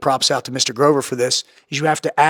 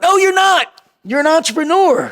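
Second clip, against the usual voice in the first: very high, loud mock yell; hammed-up shouted pep talk; retold emphatic rebuttal; 12 semitones higher, 5 dB louder than usual. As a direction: shout it as a mentor refusing self-pity. Mentor rebuking a despairing caller.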